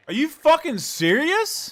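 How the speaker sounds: yelling in disbelief; loud angry outburst; furious shout. Real, not acted. Angry outburst at missed putt.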